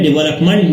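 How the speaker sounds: डेवलपमेंट with the weight on final MENT; stress on last syllable. Shown as a demonstration. Teacher shows students the mistake, stress on last syllable. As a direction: land on मंट at the end of डेवलपमेंट. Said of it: "जो शद है वो मंट पे नहीं है".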